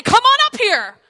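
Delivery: guards' challenge. Retold or imitated. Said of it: "But if they say".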